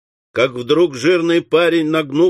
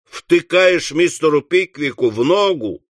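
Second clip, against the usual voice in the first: mildly cross interrogation; understated irate master; angry questioning; 3 semitones higher than usual. Acted. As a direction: demand an explanation with some heat. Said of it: "сердито спросил Уордль".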